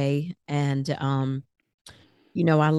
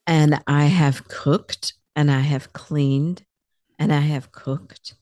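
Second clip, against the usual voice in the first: weary repetition; 4 dB louder, slower than usual. Real, not acted. Listing endless chores, repeated.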